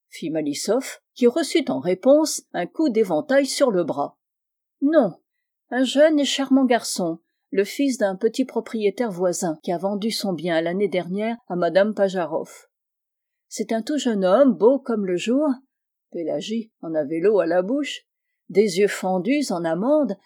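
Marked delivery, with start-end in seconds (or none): 4.8-15.5 raised, admiring spinster's voice; lightly voiced gushing spinster. Pélagie describing a young man to Malisoff, lightly gushing. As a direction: sing his praises with a light lift.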